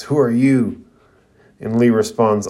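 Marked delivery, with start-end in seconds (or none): 0.0-0.8 a touch of anger in a sharp question; angry demand. Acted. Dosu demanding that the newcomer name himself, mildly angry. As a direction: challenge the stranger. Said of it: "Dosu angrily asks".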